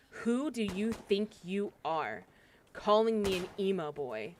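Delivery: slow, measured mock indignation; understated retold anger, drawn out; pissed off, retold. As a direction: retell his offence, spacing the words out. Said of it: "He was very pissed off at me".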